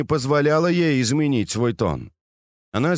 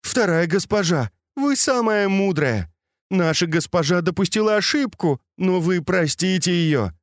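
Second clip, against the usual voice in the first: lightly voiced servants pleading, higher pitched; fawning plea; 7 semitones higher than usual. A narrator's reading. Kneeling servants beg the angry mistress, mildly fawning. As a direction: beg sweetly and humbly, voice lifted higher. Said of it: "подобострастно улыбаясь, взмолились".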